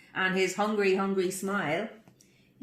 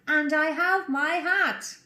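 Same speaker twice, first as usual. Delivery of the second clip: proud and slow; 7 semitones higher, 5 dB louder, slower than usual. Acted. Pig's triumphant refrain.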